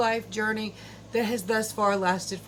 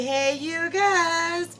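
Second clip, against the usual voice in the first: drawn-out greeting; 8 semitones higher, 6 dB louder, much slower than usual. Real, not acted. Channel intro greeting.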